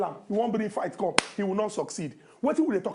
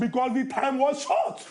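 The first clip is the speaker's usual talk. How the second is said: higher, slow, "short" drawn upward; stress on SHORT; 4 semitones higher, slower than usual. Real, not acted. Defiantly repeating it to co-host, stressing "short" high and drawn out. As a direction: lean hard on "short" with a long rising end. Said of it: "You emphasizing on the word short".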